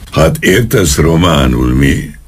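mild angry snap; snapping policeman. Acted. Policeman catches the old man understanding, a mild angry snap. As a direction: snap back, catching him out. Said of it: "csattant fel az egyenruhás".

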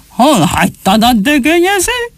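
a furious father forcing words through clenched teeth; seething question to his son; through gritted teeth. Acted. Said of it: "a fogát csikorgatta".

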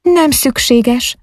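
slow, high, cool dismissal; cold refusal. A narrator's reading. Ágnes refusing the young knight's escort, cold and slow. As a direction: turn him down coolly and slowly. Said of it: "szólt hidegen, elutasítón".

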